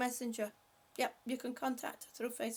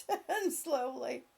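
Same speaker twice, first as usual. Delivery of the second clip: slow, drawn-out coaching cue; said slowly like a fitness coach; slow instruction; slower than usual. Shown as a demonstration. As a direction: ease them through the turn slowly. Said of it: "ever so slowly".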